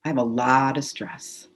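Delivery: calm, measured tapping script. Acted. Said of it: "just say out loud".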